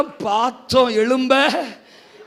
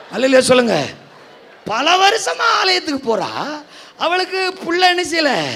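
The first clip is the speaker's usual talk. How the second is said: high, loud laughing sermon; fiery preaching; 7 semitones higher, 6 dB louder than usual. Acted. Pastor points at the two rivals to the church, high fiery preaching.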